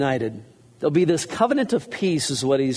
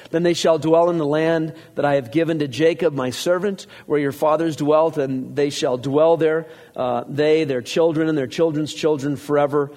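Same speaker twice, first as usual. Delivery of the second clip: raised, steady reading of scripture. Acted. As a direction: read it out to the congregation. Reads scripture aloud.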